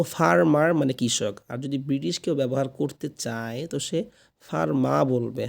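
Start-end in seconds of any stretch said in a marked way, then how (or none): 0.0-0.7 American ফার্মার, final r sounded; American farmer with the last r pronounced; American accent. Shown as a demonstration. Teacher shows American usage to learners, American final r. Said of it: "তো আমরা যদি আমেরিকানভাবে বলি". 4.4-5.0 British ফার্মা, final r dropped; British farmer ending in an open ah; British accent. Shown as a demonstration. Teacher shows British usage to learners, British silent r. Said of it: "লাস্টে এই আরটা উচ্চারণ হয় না".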